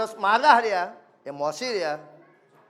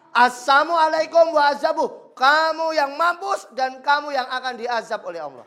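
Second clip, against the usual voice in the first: angry reply; 5 semitones higher than usual. Retold or imitated. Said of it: "Ibunda Aisyah marah".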